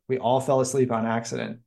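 usual speaking voice

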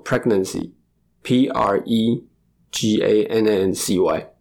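slow letter-by-letter spelling. Shown as a demonstration. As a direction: read each letter out slowly. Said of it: "这个怎么拼".

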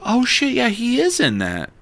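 yelping with sudden recognition; excited realisation. Retold or imitated. Telling his friend about the screening, excited.

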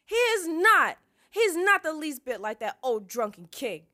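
high, furious shriek at a sister; full-volume tantrum, coming down slightly; screaming. A narrator's reading. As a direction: scream it in outraged grief. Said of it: "she screamed at her sister".

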